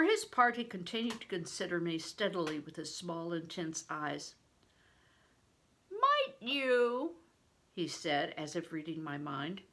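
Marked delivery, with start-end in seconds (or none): 5.9-7.2 higher, louder, slow booming blessing; a giant of a man, booming and slow; big stranger. A narrator's reading. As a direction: play the huge man, loud and hearty.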